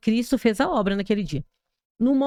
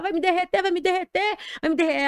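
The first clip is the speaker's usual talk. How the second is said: mild mock panicked cry; 6 semitones higher than usual. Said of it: "Eu comecei a gritar".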